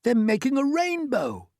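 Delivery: high delighted voice; wonder. A narrator's reading. Travellers marvelling at the rainbow, amazed. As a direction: gasp at its beauty.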